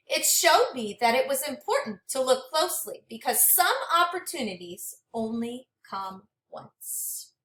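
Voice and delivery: gentle, expressive storybook read-aloud; reading to children. Acted. Teacher reading a storybook to her class, expressive and gentle. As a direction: read it like a picture book for a class. Teacher reads the book's ending.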